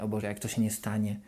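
a mild nervous spiral, kept low; worrying alone while waiting for results, quietly anxious; anxious looping thoughts. Retold or imitated. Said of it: "zaczynasz się zapętlać w takie negatywne myślenie".

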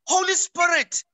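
humble prayer. Shown as a demonstration. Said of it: "you say".

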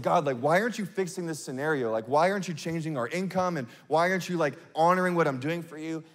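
half-mocking your own sulky questions; retold moping. Preacher retelling his moping before God, plaintive. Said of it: "just, like, being an Eeyore".

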